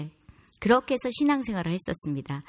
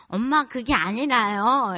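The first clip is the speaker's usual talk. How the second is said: higher, louder mock child protesting; drawn-out, raised imitation of an excuse; kid making excuses; 4 semitones higher, 7 dB louder, slower than usual. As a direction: imitate a flustered kid pleading with mom. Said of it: "이렇게 변명을 하더라고요".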